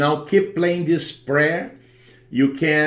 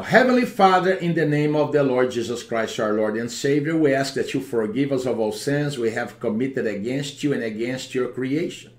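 praying. Acted. Deliverance prayer over the home.

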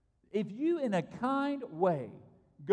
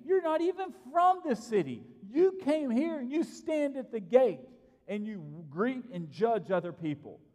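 mob outrage; 4 semitones higher than usual. Retold or imitated. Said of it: "They looked at Lot and said".

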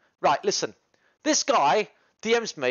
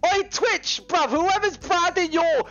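exasperated rant; 9 semitones higher than usual. Real, not acted. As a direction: call Twitch out, half joking. Calling Twitch out, shouting.

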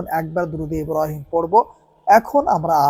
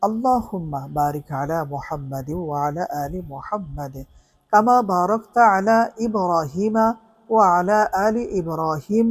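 recited prayer; 3 dB quieter than usual. Shown as a demonstration. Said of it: "তিনবার দুরূদ শরীফ পড়ব".

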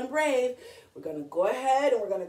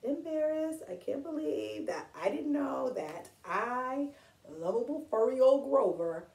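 embarrassed; 6 dB quieter than usual. Retold or imitated. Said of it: "he was like".

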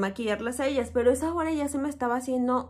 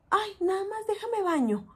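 mock casual request; 9 semitones higher than usual. Late client casually wants shower.

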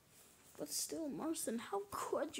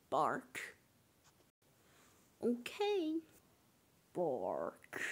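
deep dog bark; 5 semitones lower, much slower than usual. Acted. Imitating a dog barking.

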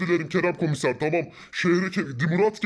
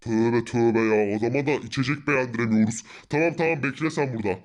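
exasperated; 11 semitones lower than usual. Acted. Exasperated sigh at friend.

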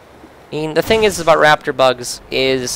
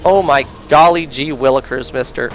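put-on wholesome 1950s kid. Reacting to enemy threat.

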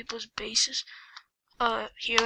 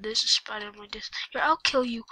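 screaming at a spider. Real, not acted. Spider on his disc.

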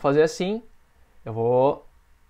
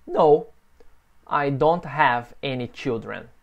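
slow, clear repeat-after-me answer; teacher modelling slowly; slow model answer; slower than usual. Shown as a demonstration. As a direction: say it slowly for students to copy. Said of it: "repete comigo".

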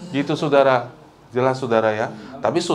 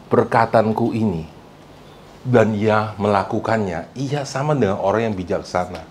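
slow, measured Bible reading; deliberate pulpit recitation; scripture reading; 2 semitones lower than usual. Real, not acted. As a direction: read the verse out solemnly, phrase by phrase. Reads scripture aloud.

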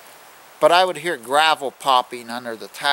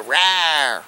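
mock growl to scare a kid; 3 semitones higher, 3 dB louder than usual. Shown as a demonstration. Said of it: "you'd go".

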